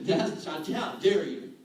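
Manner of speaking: laughing, mock offended and loud; half-laughing how-dare-you; laughing indignation. Real, not acted. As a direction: laugh out the outrage.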